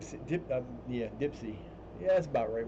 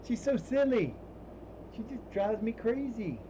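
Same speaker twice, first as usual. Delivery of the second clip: fond pet voice; 10 semitones higher, slower than usual. Real, not acted. Fond complaint about cat.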